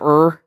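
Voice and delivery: "er" with a hard American R; hard R sound. Shown as a demonstration. Showing which vowel sound goes wrong in British, hard R on "er". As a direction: sound out "er" with the R fully pronounced. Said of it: "using the hard, like, R sound".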